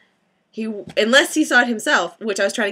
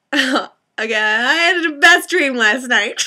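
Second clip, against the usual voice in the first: slow, higher, louder gush; excited opener; 5 semitones higher, 6 dB louder, much slower than usual. Real, not acted. Telling viewers about her dream, slow and gushing. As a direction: savor it dreamily.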